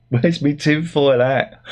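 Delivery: slow, put-on voice; joking about needing a tinfoil hat; mock paranoid. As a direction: ham up the crackpot. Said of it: "self-mocking conspiracy joke".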